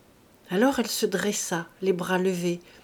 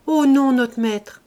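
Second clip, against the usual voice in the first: higher, loud, drawn-out denial; protesting cry; 4 semitones higher, 8 dB louder, slower than usual. A narrator's reading. Servant denying to her master, protesting cry. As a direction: plead it out slowly and loudly. Servant again denies, crying out.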